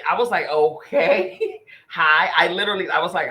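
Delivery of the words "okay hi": startled hello with a laugh; giggly surprised hi; nervous laughing hi. Retold or imitated. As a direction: laugh through the greeting, caught off guard. Startled by apparition, laughing greeting.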